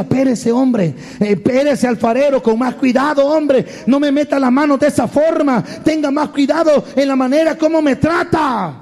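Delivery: lightly voiced grumbling clay, pitch climbing; complaining clay. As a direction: protest to the potter, rising as it goes. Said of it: "Y aquel barro decía".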